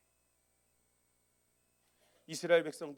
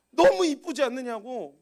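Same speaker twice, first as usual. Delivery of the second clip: gushing; 9 semitones higher, 15 dB louder, slower than usual. Retold or imitated. Mocking others' gushing over baby.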